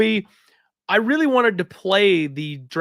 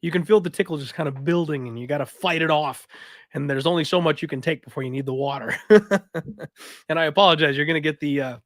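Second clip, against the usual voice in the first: hoarse, raspy sick voice. Real, not acted. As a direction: rasp through a sore throat. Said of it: "the raspy voice".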